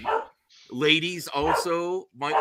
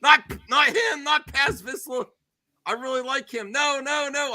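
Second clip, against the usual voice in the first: high-pitched pleading protest; wife begging the show to spare Paz Vizsla, high and pleading; mock upset wife; 11 semitones higher than usual. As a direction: whine it like a fan losing her favorite. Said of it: "She's like".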